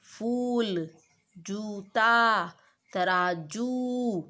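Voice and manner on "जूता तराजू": जूता and तराजू very slowly, ऊ drawn out; जूता, तराजू with long ऊ; slow stressed long ऊ. Shown as a demonstration. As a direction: stretch each long ऊ. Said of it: "थोड़ा जोर डाला जाता है".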